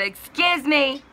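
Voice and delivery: very high, loud mock indignation; drawn-out, affronted retort, imitating the caller; indignant interruption. Dispatch woman cutting the customer off, mock indignant. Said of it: "she interrupts me and says".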